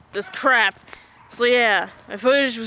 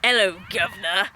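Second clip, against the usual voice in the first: a hint of a Cockney greeting, lower; lightly done cockney hello governor; British accent; 4 semitones lower than usual. Shown as a demonstration. Friend greets the camera in a mock British accent. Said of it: "in a British accent".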